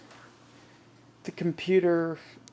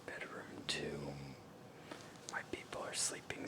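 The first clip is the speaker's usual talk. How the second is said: hushed whisper, people asleep nearby; 17 dB quieter than usual. Real, not acted. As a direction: whisper so nobody wakes up. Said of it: "so I have to whisper".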